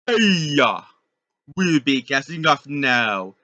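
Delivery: high loud squawky parrot. Acted. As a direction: squawk a cheerful farewell. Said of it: "Aang said".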